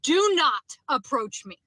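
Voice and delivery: firm, slow loud command; retold yell. Woman retelling yelling at a man in a parking lot, loud and firm. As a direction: bark it slowly at a stranger. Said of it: "I literally yelled at him".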